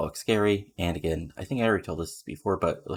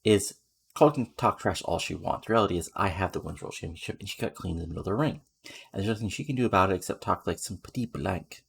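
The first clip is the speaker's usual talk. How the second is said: lightly put-on French accent for the champion; half-hearted French accent as Lean Cartier. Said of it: "can I do a French accent?".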